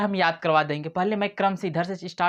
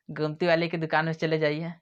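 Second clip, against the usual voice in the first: hushed unvoiced aside; whisper. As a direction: whisper it as a joke. Jokey aside about a paan shop.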